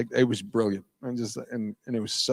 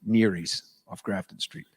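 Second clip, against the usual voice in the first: put-on Irish accent; 3 semitones lower, 4 dB quieter than usual. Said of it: "He says".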